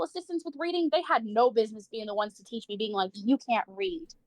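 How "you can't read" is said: drawn-out, slow mock taunt. Retelling teachers taunting a child, slow and condescending. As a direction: drag out the words like a condescending teacher.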